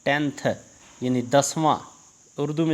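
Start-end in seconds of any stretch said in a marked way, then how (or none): 0.1-0.5 टेंथ set apart, with TH at the end; final TH sounded. Shown as a demonstration. Teacher modelling the ordinal टेंथ for pupils, TH ending sounded. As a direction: pronounce टेंथ through to its closing TH. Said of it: "आखिर में टीएच आएगा".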